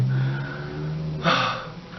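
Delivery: long breathy sigh, imitating her; acted sigh. She hears he is coming over, acted long sigh. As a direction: let out a long, acted exhale. Acting out her reaction to him.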